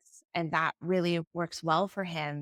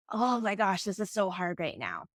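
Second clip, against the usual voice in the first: heartfelt empathy. Acted. Parent feeling for a struggling child, sincere empathy. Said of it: "I really feel for them".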